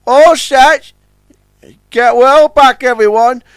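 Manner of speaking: high, hearty boasting; jovial boast. Acted. Billy boasts to the tugs, hearty. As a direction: crow it cheerfully.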